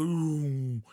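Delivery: swooping "ooh" sound effect; imitated zoom. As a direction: voice something zooming closer. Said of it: "and then it goes".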